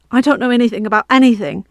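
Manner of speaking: a touch of fear in the plea; frightened boy denying everything, mildly shaky; shaking voice. Acted. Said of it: "his voice shook".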